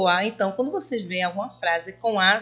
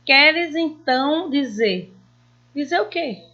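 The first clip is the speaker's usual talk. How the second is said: unfinished question; 5 semitones higher, 4 dB louder than usual. Shown as a demonstration. Teacher acting out an incomplete sentence for pupils. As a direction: let the question hang, puzzled. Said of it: "indica que a frase está incompleta".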